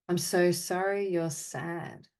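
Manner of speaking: deliberate, evenly spoken phrases with long pauses; guided apology meditation. Acted. Meditation leader answering the group's sadness and anger with measured apologies. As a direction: offer each apology, then leave silence. Offers apologies to participants' named feelings.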